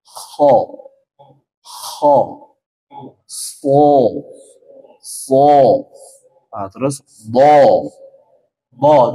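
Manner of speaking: "ho, so, bo" full and heavy, slow; thick letter drill. Shown as a demonstration. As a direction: round but not pursed: "bo" not "bu". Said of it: "baru tambah hurufnya ho". ("bo" tebal, jangan monyong)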